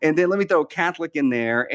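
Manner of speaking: light, hurried mock cook musing aloud; improvising cook. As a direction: play someone eagerly throwing ingredients together. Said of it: "go in the pantry and you're like".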